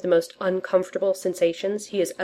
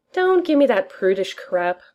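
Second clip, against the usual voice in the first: cheerfully; 4 semitones higher than usual. Acted. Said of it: "Tony says cheerfully".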